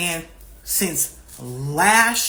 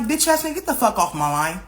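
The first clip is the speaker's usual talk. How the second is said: retold angry cussing; 2 semitones higher than usual. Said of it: "I'm like".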